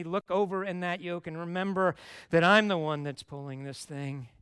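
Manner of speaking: building to a loud, pleading preach; voicing Jesus. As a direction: preach Jesus' invitation with rising fervor. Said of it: "And Jesus says".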